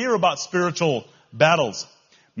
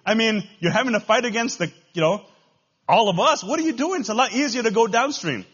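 higher, louder mocking crowd voice; heckling fish; 6 semitones higher, 5 dB louder than usual. Other fish jeer at the salmon swimming upstream, acted heckling. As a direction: call out in disbelief, as a heckler. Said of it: "rest of the fish, if they can talk, are saying".

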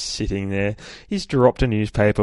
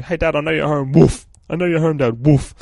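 higher pleading voice with loud barked woofs; imitating his dog; 7 semitones higher, 7 dB louder than usual. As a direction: play the dog whining at the door for Dad. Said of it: "sit at the back door going".

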